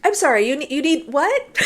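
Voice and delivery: baffled, as if you misheard the request; retold confusion. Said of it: "I'm confused".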